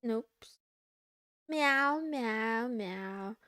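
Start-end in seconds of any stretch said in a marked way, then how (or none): 1.5-3.4 cat meows. Pretend. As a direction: meow like a cat, trailing off. Meowing like a cat, fading.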